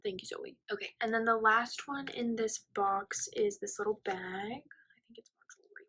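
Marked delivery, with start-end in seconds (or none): 4.2-5.9 softer whispered guess. Real, not acted. Friend peeking into the gift bag, soft whisper. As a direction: murmur it to yourself, curious.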